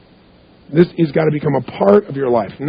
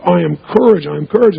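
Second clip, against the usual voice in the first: grounded conviction. Retold or imitated. Showing how she truly claimed courage, steady and grounded. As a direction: plant your feet and mean every word. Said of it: "she put her shoulders back and she breathed".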